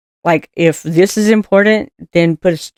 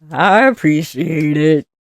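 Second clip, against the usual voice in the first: Eeyore imitation; slower than usual. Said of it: "'cause he's a, uh".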